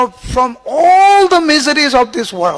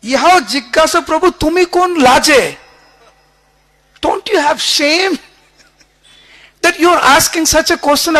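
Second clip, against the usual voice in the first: loud, higher, indignant scolding; furious rebuke; 4 semitones higher, 4 dB louder than usual. Retold or imitated. Damodar Pandit rebuking Mahaprabhu about his mother, furious and loud. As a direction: scold the Lord in outrage, voice raised high. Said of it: "Damodar Pandit was furious".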